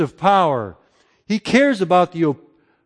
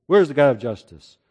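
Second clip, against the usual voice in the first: lower, dismissive doubter's question; skeptical muttered question; 5 semitones lower than usual. Retold or imitated. Cynic today doubting God's justice, low and dismissive. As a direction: shrug it off like a cynic. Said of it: "There's people that talk like this".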